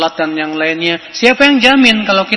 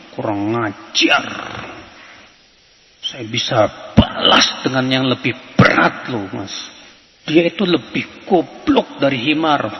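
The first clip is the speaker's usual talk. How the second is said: mock indignant retort; 2 semitones lower than usual. Imitating a listener stung by gossip, mock indignant retort. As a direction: play the touchy listener snapping back in offence.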